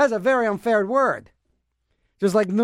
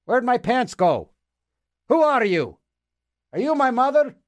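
put-on confused old DJ; 3 semitones higher than usual. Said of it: "'cause he always says".

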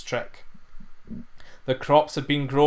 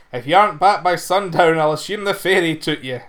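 louder mocking jibe; scoffing farmer; 2 semitones higher, 5 dB louder than usual. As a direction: scoff at the lad's fear. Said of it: "he scoffed".

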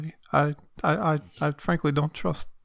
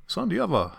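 Billy Bob Thornton voice; 5 semitones higher than usual. Pretend. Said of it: "That is exactly what he would say".

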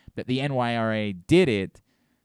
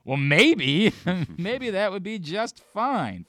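tempted inner voice; 5 semitones higher, slower than usual. Retold or imitated. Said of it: "think to myself".

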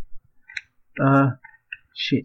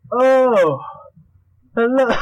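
high, drawn-out swooping hello; silly greeting; 9 semitones higher, 4 dB louder, much slower than usual. Pretend. Host clowning at podcast start, silly high greeting. Performed mock intro greeting.

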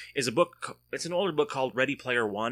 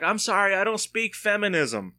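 higher and louder, smug comeback; mock yell back; 8 semitones higher, 4 dB louder than usual. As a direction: shout the punchline back with a cheeky edge. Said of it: "I have to yell back".

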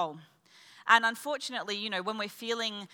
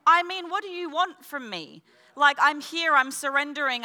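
high-pitched exasperated plea; retold exasperation with God; a bit annoyed; 5 semitones higher, 4 dB louder than usual. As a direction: complain upward, pitch raised, at your wit's end. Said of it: "starting to get a bit annoyed at God".

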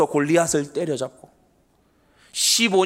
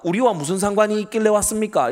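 sneering demon; 3 semitones higher than usual. Retold or imitated. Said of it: "이렇게 빈정거리면서 말해요".

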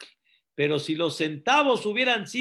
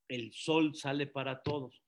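reluctant, deflated; 4 semitones lower, 6 dB quieter than usual. Retold or imitated. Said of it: "ahí es cuando quiero ver si dices".

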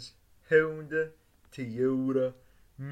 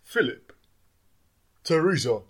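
calling out; 9 semitones higher, 9 dB louder than usual. Acted. Calling out for others.

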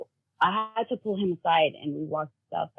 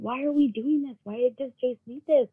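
higher, mildly distressed child imitation; retold breaking down; 4 semitones higher than usual. Son questioning mom about the donation, mildly upset. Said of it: "breaking down, crying".

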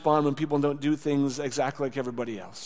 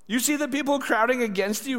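higher-pitched, baffled objection; incredulous disciples; 9 semitones higher than usual. A narrator's reading. Disciples questioning Jesus in the crowd, incredulous. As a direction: read it as an astonished protest.

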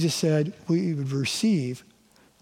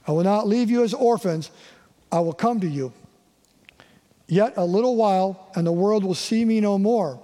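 raised, earnest reading of Jesus' promise; scripture reading. Acted. Pastor reading John fourteen aloud to the congregation, earnest scripture reading. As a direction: read it out like the words of Jesus to his friends.

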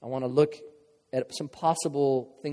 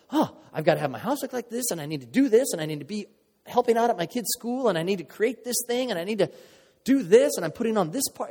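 higher, mounting frantic list, voiced lightly; mocking a stressed woman; 5 semitones higher than usual. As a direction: play it up as an overwhelmed mom piling on chores. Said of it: "you women look at that and go".

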